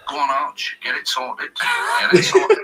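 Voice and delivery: imitating a football manager's accent; Clough's accent. Manager telling Arch to sort the deal, in an imitated accent. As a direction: put on the gaffer's regional accent. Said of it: "His accent's now done".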